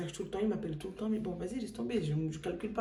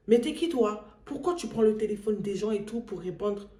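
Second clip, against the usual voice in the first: indignant; 2 semitones higher, 4 dB louder than usual. Retold or imitated. Caller challenging the husband who answered, indignant. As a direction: imitate an affronted caller challenging someone.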